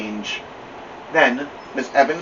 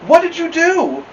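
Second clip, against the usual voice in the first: amused librarian; 6 dB louder than usual. Acted. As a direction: draw it out like a librarian playing along.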